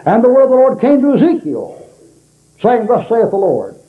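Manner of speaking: high-pitched preaching, every word emphasized; Jack Hyles. Retold or imitated. First-time preacher ad-libbing from no notes, mock over-emphatic. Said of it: "he emphasized every word in that thing".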